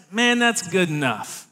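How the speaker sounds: "man, that's good enough" said dismissive from the back of the throat; Southern saying with a touch of disapproval; Southern drawl. Shown as a demonstration. Youth pastor teaches the church a Southern saying, dismissive drawl. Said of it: "you have to say it from the back of your throat".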